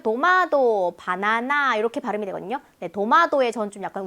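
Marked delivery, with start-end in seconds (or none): 0.0-1.7 a hint of Korean country dialect on "도마도". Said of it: "어떤 지역의 사투리는요".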